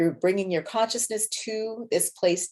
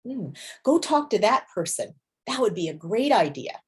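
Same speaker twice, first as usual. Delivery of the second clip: encouraging inner voice. Shown as a demonstration. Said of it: "It's like a cheerleader".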